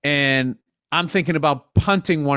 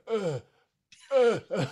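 strained grunts; 4 semitones higher, 7 dB quieter, slower than usual. Retold or imitated. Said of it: "You're like".

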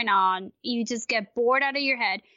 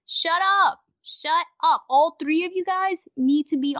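higher, emphatic mock scolding; exasperated telling-off; 4 semitones higher than usual. Host rants at absent commentators, exasperated. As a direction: scold them as if they could hear. Rant addressed at the chattering commentators.

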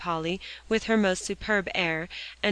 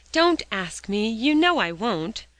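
earnest promise; 4 semitones higher, 6 dB louder, slower than usual. A narrator's reading. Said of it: "promised Alexia".

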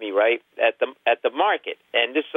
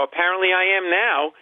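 higher-pitched sarcastic retort; retold sarcasm; 6 semitones higher than usual. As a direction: answer the cashier with mock seriousness. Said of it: "So then I get really sarcastic".

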